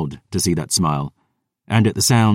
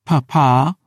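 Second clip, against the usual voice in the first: spat; 8 semitones higher, 4 dB louder than usual. Acted. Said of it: "she spat".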